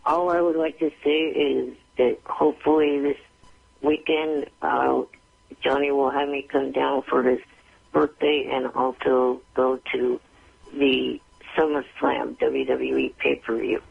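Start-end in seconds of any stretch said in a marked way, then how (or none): none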